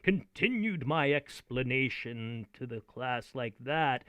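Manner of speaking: intentional delivery. Shown as a demonstration. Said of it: "I switched into that mode".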